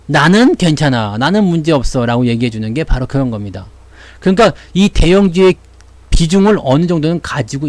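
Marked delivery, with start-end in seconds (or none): 0.1-2.2 calm, slowed soothing words; big stocks calming a jittery investor, slow and soothing; slow mock reassurance. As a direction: settle a nervous investor gently. Large caps soothing the investor.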